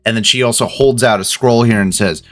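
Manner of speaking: seething boss, words pushed through teeth; through gritted teeth. Acted. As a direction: hold back fury behind clenched teeth. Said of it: "talking through gritted teeth".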